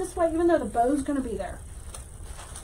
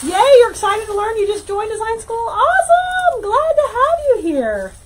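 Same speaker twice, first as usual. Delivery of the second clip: excited welcome; 7 semitones higher, 7 dB louder than usual. Real, not acted. Host greeting a new student, excited and laughing. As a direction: cheer them into the class, laughing.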